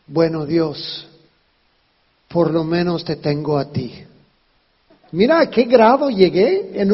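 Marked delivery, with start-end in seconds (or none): 0.0-4.0 resigned prayer. Retold or imitated. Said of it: "en ese momento dije". (rezo resignado y lento)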